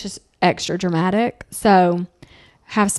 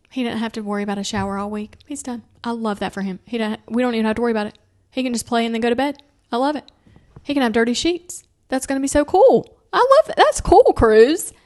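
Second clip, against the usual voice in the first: fast fake enthusiasm building to a high, loud squeal; mock delight; 4 semitones higher, 4 dB louder, faster than usual. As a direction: gush sarcastically, climbing higher and louder. Mock gushing to husband Alan.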